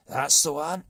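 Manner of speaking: very loud triumphant shout; booming chief. Acted. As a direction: slam down the choice. Chief seizes idea.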